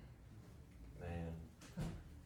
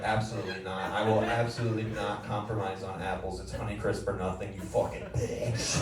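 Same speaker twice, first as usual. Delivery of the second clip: mock-indignant refusal building to a hard insult; acted outburst, a touch too heated; a little over-excited; 3 dB louder than usual. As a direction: get worked up over something trivial, stretching the final insult. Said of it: "I got a little excited there".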